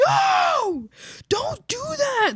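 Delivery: high, loud whiny protest; upset kid coworkers. Retold or imitated. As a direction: play the horrified young coworker. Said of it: "They're like".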